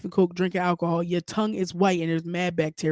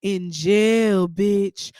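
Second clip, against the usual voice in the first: quoting Jocelyn; 3 dB louder, much slower than usual. Retold or imitated. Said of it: "when she told Tommy".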